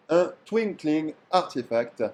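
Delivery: slow, deliberate English accent on "twinkling artifact". Real, not acted. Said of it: "Excusez mon accent anglais".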